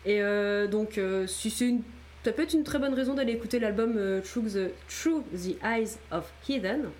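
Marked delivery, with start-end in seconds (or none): 4.2-6.9 English title with a heavy French accent; French speaker stumbling through English words; terrible English accent. Real, not acted. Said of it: "J'ai un accent anglais immonde".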